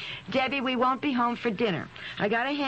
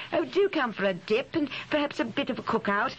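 lightly imitated English accent; amateur attempt at an English accent; 3 semitones higher than usual. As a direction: put on a slightly higher English hostess accent. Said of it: "I think she's English".

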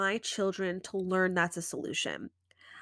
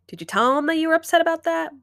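higher, louder, quick self-question; inner questioning; 7 semitones higher, 7 dB louder, faster than usual. Shown as a demonstration. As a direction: quiz yourself brightly.

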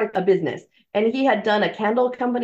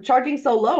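high, astonished question at the start; amazed relative; 4 semitones higher than usual. Retold or imitated. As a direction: act amazed at the cheap price. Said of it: "And they'd be like".

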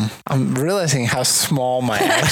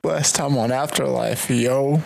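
put-on Australian accent. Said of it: "that's my favorite Australian accent".

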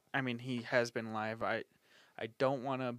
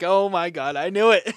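high, loud mock gasp; surprised; 6 semitones higher, 15 dB louder than usual. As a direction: fake shock, hammed up. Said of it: "and I was like".

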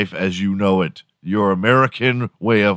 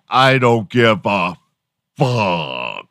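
FUCK drawn out and punched after a slow build; slow, overemphatic delivery landing on a long, falling "fuck"; heavy emphasis; much slower than usual. Acted. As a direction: act out a big movie swear, leaning hard on "fuck". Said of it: "really put emphasis on it".

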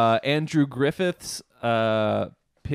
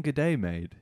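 mock whisper; 5 dB quieter than usual.

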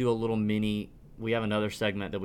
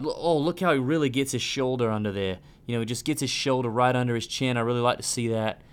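bad English accent impression; terrible Nick Faldo accent. Host mocking Faldo's commentary in a bad English accent. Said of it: "That's a terrible Nick Faldo accent".

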